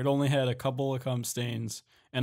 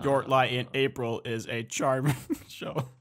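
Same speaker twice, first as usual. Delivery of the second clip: deadpan robot voice. Acted. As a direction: say it like a Discord bot. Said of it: "in the Discord robot voice".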